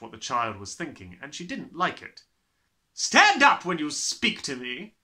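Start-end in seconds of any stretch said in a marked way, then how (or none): 2.9-5.0 snapped. Acted. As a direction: snap the order. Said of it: "she snapped".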